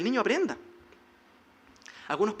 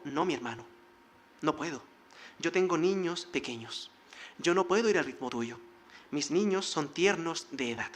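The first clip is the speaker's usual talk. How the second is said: gentle refusal; 4 semitones lower, 3 dB quieter than usual. Retold or imitated. Jacob telling his brother he cannot keep pace, gentle. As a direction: decline kindly, letting him down easy.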